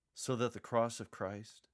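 sincere question, with that stressed; earnest and questioning; deep sincerity. Shown as a demonstration. Paul posing the final question with deep sincerity. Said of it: "say this with deep sincerity".

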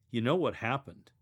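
conversational, almost a question; casual question to a friend. Shown as a demonstration. Telling a friend what happened. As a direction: ask it like telling a friend news. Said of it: "talking to a friend about a recent event".

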